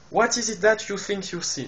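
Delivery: heavy French accent on English words; very bad English accent. Shown as a demonstration. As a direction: read the English line with a clumsy French accent. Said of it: "C'est un accent anglais très pourri".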